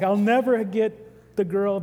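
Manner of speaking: hammed-up heartbroken moan, drawn out; mock despair.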